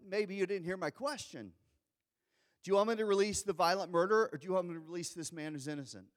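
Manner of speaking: fast, insistent questioning; exasperated repeat. Retold or imitated. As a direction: rattle it off at them, exasperated. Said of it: "And Pilate goes".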